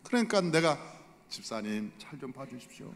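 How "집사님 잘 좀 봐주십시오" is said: soft, humble request to a deacon; bow your voice down and ask politely; quietly deferential asking for a favor; humble plea. Retold or imitated. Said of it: "그분 앞에도 겸손하게".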